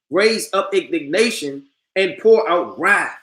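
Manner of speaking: slow, solemn reread of the verse; slow solemn scripture reading; reading again. Shown as a demonstration. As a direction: lean on each phrase, slowly. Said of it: "I'm gonna read that again".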